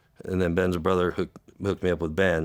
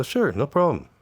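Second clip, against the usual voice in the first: high, strained with real emotion; holding back tears; choked up; 8 semitones higher, 3 dB louder than usual. Real, not acted. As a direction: push the words out past a lump in the throat. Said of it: "you get emotional over certain things".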